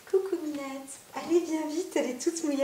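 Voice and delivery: sweet high-pitched talk to a wet cat; pet talk. Real, not acted. Greeting her wet cat.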